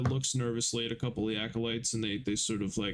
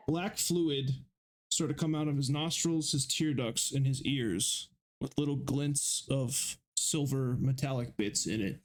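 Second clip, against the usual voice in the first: normal talking voice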